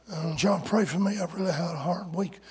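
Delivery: quiet, fast, self-pitying prayer request; mock whiny moan. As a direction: whine it out like a complainer. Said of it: "God bless you, brother, for that wonderful moan".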